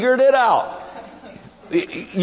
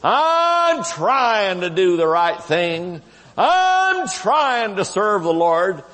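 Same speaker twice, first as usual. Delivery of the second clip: slow, drawn-out pleading testimony; whiny churchgoer testimony; 2 semitones lower, slower than usual. Retold or imitated. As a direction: imitate a tired churchgoer pleading his efforts. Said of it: "and they'd say".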